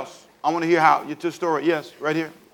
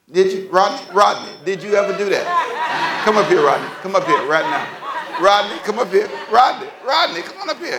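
yelling across the room; 5 semitones higher than usual. Real, not acted. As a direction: shout his name across the room. Calling deacon up across room.

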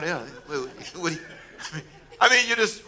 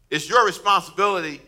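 higher and louder, pressing the point; emphatic preaching; 4 semitones higher, 6 dB louder than usual. Real, not acted. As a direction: drive it home to the congregation. Preacher repeats the quote with force.

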